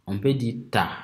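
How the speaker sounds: ta said with a plain open a, no nasal sound; without nasal. Shown as a demonstration. Teacher to class, contrasting ta with the nasal word. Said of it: "si on ne l'écrit pas avec le N".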